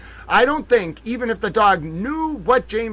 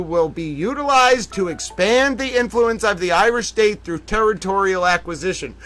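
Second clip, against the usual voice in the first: mock earnest rant; 3 dB louder than usual. Host ranting mock-seriously to Eva, loud. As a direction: insist it's a diplomat.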